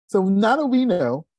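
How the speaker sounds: sudden loud call. Real, not acted. Coach fires up his audience.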